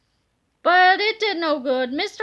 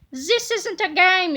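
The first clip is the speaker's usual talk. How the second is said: yelled; 3 semitones higher, slower than usual. Acted. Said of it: "yelled Big Tippy".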